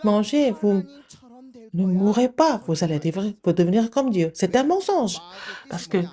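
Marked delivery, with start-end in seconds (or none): 0.0-4.3 «Non, non, non» lancé haut et fort, puis ton rusé; un serpent qui ment aux enfants; Satan menteur. Acted. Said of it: "Satan a dit". (Satan qui ment, voix d'abord plus haute)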